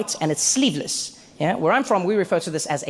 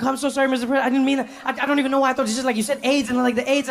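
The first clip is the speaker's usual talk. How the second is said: higher, rushed, panicky babbling; flustered apology; 5 semitones higher, faster than usual. Retold or imitated. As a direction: scramble to apologise, tripping over words. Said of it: "and then I was like".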